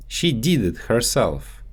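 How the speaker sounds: did said as "deed" with a long ee; Russian-accented "did" stretched to deed. Shown as a demonstration. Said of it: "so they often get mixed up in English".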